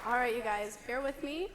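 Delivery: hoarse, worn-out voice. Real, not acted. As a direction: speak through a hoarse throat. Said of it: "I lost my voice".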